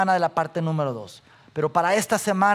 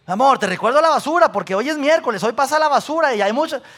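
higher, louder, fast reminder; wife reminding husband it's trash day, fast and higher; 5 semitones higher, 4 dB louder, faster than usual. Retold or imitated. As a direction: hurry through a wife's trash reminder. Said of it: "Cómo sonaría si llegara".

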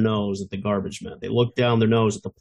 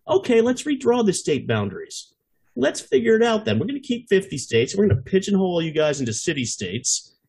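higher, mock-cheerful sarcastic proposal; sarcastic retort; 3 semitones higher than usual. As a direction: toss it off like a smug fix for the whole country. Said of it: "I'm kinda".

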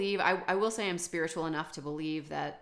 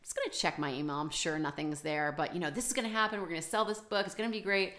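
breezy, quick self-assurance; mock confident; faster than usual. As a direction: brush off doubt and sound sure. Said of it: "trying to just be super positive and super confident".

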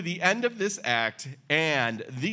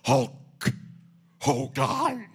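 slow bellowed wrestler shout; wrestling promo; 4 semitones higher, 3 dB louder, slower than usual. Retold or imitated. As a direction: roar it like an unhinged wrestler.

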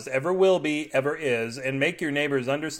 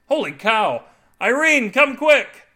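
high, loud, amazed yell; excited calling out; 11 semitones higher, 9 dB louder, slower than usual. A narrator's reading. Husband calling wife to taste his discovery, excited yell. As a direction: holler for someone in another room.

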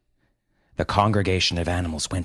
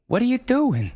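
gasped; 3 dB louder than usual. A narrator's reading. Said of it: "gasped Brenda".

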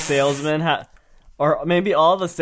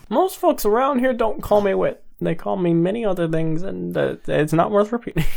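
mock-angsty radio character, slightly raised; 4 semitones higher than usual. The speaker admitting nobody calls him that, angsty. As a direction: play the friendly intro as angst. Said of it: "That's the angsty version".

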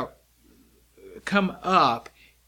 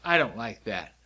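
lower, grumbling dislike; a touch of disgust; mock distaste; 4 semitones lower than usual. Shown as a demonstration. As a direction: act out not liking it. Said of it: "You can say".

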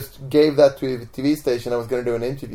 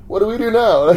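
higher-pitched mock bewilderment; screaming stopped, puzzled; 8 semitones higher, 4 dB louder than usual. Falling film characters to each other, mock puzzled question. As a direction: act out a puzzled pause after screaming. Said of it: "they stop screaming like".

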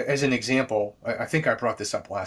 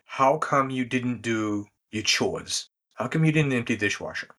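gentle asking. Retold or imitated. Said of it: "As opposed to".

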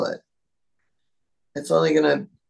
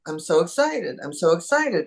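excited dog voice. Pretend. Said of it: "So I would start out with".

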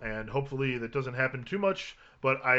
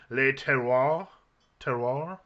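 French accent; slower than usual. Shown as a demonstration. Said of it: "That's my French accent".

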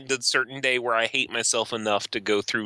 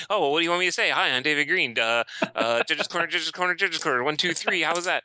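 mock David mic check; 6 semitones higher, faster than usual.

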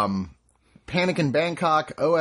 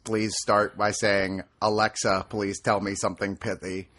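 robot voice; 4 semitones lower than usual. Pretend. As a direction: read it like a machine. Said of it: "Synth Bot".

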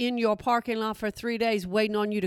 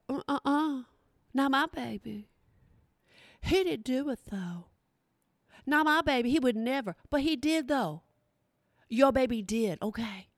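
mimicking a killer's mom. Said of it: "Every killer has their mom sit up there".

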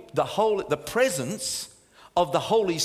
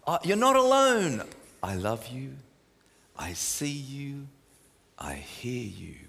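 calming voice of God. Acted. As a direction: speak as God to David in trouble. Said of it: "he has such a calming voice".

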